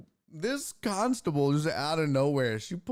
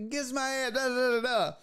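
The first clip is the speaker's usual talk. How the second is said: mock yelling; 8 semitones higher than usual. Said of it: "I see her yelling".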